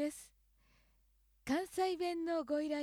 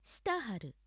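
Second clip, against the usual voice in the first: Kyoto usage. Shown as a demonstration. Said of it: "京都では".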